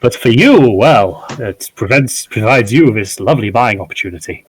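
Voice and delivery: lightly voiced old salesman, lifted at the start; elderly merchant, upbeat pitch. Old merchant sells spectacles to a customer, lightly voiced and upbeat. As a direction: turn sympathy briskly into a sales pitch.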